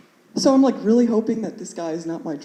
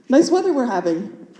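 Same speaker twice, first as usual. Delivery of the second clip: higher-pitched, nervous attempt at small talk; 4 semitones higher than usual. Student to crying teacher while he signs, nervously chatty. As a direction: make polite chat with a touch of nerves. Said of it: "getting kinda nervous".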